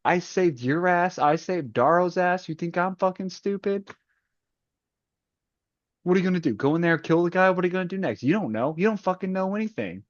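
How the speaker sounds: Mustang rant. Retold or imitated. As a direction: scold them like a betrayed leader. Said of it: "that's my Mustang rant".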